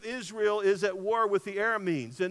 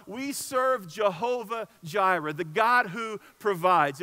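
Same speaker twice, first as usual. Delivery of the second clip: slow, proclaiming declaration; solemn slow preacher's proclamation; preaching proclamation; 4 dB louder, slower than usual. Real, not acted. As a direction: declare it slowly to the church.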